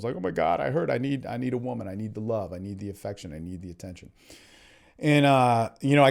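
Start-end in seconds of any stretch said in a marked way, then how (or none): 0.2-4.1 fading into a hushed plea, softer line by line; needy lament. Retold or imitated. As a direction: let the longing sink to almost nothing. Retelling his own neediness.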